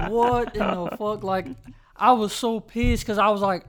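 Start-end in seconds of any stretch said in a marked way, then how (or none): 0.1-1.2 incredulous. Retold or imitated.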